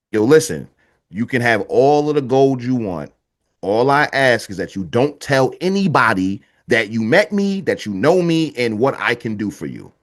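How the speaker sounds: lightly voiced snake, low and measured; low, deliberate bargain; snake making a deal. Snake laying down terms of a deal.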